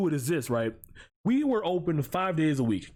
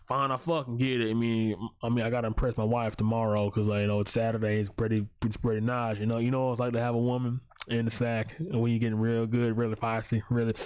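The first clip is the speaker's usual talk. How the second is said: mock sleazy customer; 4 semitones lower than usual. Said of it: "and they'd be like".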